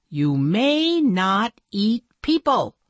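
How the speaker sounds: slow, firm warning; firm princess. Acted. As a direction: set the rule like a stern princess. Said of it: "said the princess in black".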